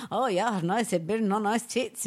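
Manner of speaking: imitating an Irish pub drinker; retold Irish lilt, lightly done; Irish accent. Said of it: "in and out of your Irish accent".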